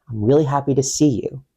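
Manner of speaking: confident statement, pitch dropping on "see you". Shown as a demonstration. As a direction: let "see you" fall at the end. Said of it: "lowering your tone at the end".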